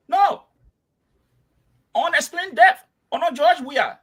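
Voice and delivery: emotional. Real, not acted. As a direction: demand answers, worked up and high. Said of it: "you're getting emotional".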